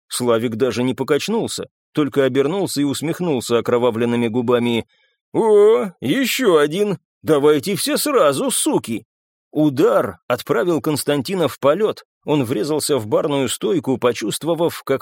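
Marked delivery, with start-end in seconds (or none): 5.3-9.0 raised, goading challenge; fighting taunt. A narrator's reading. Славик to his attackers in a brawl, goading. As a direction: dare them to come on.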